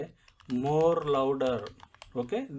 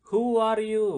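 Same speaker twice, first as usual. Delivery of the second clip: higher, louder shout to sound brave; shouting bravely; 7 semitones higher, 5 dB louder, much slower than usual. Shown as a demonstration. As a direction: shout the question to scare off the fear. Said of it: "గట్టిగా అరవడం అంటే shout చేయడం".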